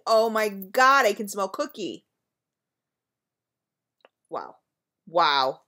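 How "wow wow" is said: a breathy, stunned wow; awed wow. Real, not acted. Vlogger amazed by the cookie scent, awed. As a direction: let it drop out in disbelief. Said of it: "Okay, I'm just wowing".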